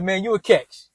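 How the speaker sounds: a hint of his mother hyping him up; mom's voice. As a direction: son quoting his mother reassuring him that he's a catch, in a low, soft voice. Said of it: "She's like".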